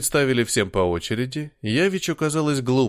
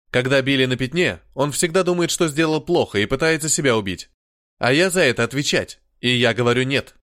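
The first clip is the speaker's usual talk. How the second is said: put-on growled in a heavy Slavic accent; 2 semitones higher, 3 dB louder than usual. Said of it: "славянскому акценту".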